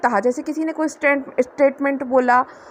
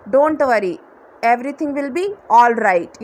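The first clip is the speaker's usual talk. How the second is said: slow reassurance; 3 dB louder, much slower than usual. Shown as a demonstration.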